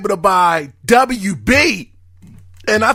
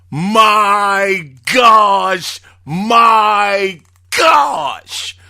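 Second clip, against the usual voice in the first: excited exclaim; much slower than usual. Real, not acted. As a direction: let the shock spill out, stretched. Host stunned by the news.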